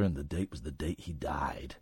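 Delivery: hushed unvoiced whisper. Real, not acted. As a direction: whisper it like a spooky secret. Spooky reveal in ghost story.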